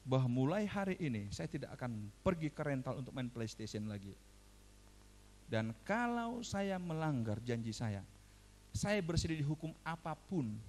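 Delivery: measured, low-pitched dictation; dictating. Retold or imitated. Father dictates the punishment clause to his son, measured dictation. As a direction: dictate a solemn written pledge, phrase by phrase. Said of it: "saya diktekan, ditulis".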